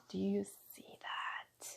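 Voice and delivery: slow, breathy whispered repeat; hushed and slow. Real, not acted. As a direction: whisper it like a secret wonder.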